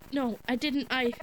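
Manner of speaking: rising panicked apology; frantic high pleading. Acted. Frantic denial to ghost.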